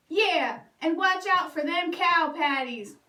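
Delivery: lightly voiced, smug stepbrother chiming in; mocking stepbrother. Second stepbrother piling on Bubba, mild smug tease. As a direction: tease him from the saddle. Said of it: "added Milton".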